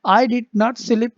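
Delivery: loud and slow, each word hit; stressed slow read. Shown as a demonstration. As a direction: press on did not as a demo. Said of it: "मतलब मैंने कल रात बहुत नहीं सोई".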